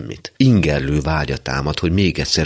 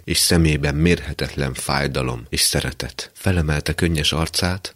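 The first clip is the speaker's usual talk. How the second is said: ordinary delivery, nothing marked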